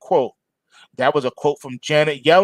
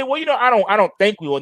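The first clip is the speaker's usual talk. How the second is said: higher, hesitant hedging voice; hedging mock quote; 5 semitones higher, much faster than usual. Mocking how she should have hedged, higher and hesitant. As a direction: sound unsure on purpose. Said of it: "She didn't say".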